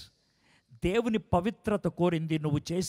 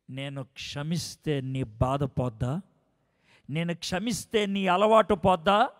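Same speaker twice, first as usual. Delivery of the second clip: angry confrontation; 5 semitones higher, 6 dB louder, slower than usual. Retold or imitated. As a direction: build from cold reproach to a furious shout. Mother angrily confronting her son.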